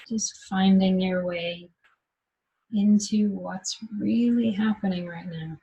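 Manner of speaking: unhurried meditation guide, long pauses between phrases; guided meditation. Acted. Teacher guiding meditators to rest in what's happening, guided meditation. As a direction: guide them gently into noticing, leaving long silences.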